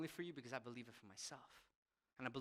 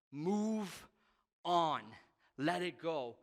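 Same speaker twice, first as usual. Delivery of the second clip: higher, louder, stern "move on"; firm command; 4 semitones higher, 9 dB louder, much slower than usual. Retold or imitated. God telling the pastor to let it go, raised and stern. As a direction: push him off it like a firm friend.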